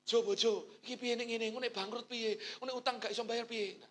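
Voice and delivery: mock anxious whining to spouse; lightly voiced worried spouse; worried fretting. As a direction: fret like a nervous husband. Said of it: "Jangan malah".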